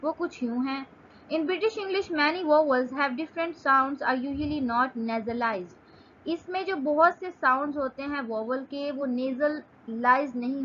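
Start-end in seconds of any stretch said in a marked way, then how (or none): 1.3-5.8 slow, careful reading of a definition; slow dictation reading. Shown as a demonstration. Teacher reading a definition aloud to students, slow and careful. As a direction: read it out slowly for students to follow.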